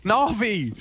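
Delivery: excited play-by-play. Real, not acted. Hype call of round end.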